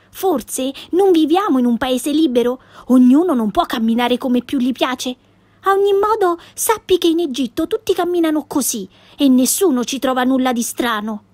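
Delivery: put-on bright cheeky girl voice, lightly done; a hint of a feisty little girl protesting; lightly voiced Pippi, indignant.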